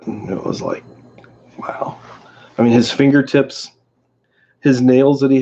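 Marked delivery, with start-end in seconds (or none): 0.1-2.0 whispered awe; hushed wow. Real, not acted.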